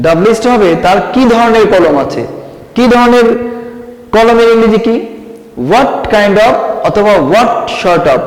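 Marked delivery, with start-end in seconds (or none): 5.7-8.2 slow and clear, word by word; slow dictation. Shown as a demonstration. Teacher dictating the phrase slowly to students. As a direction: lay out each word for the notes. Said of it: "মনে আছে".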